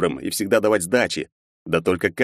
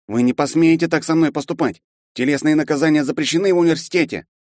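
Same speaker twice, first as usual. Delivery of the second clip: panicked protest; 10 semitones higher, 3 dB louder than usual. A narrator's reading. Panicked student protests punishment.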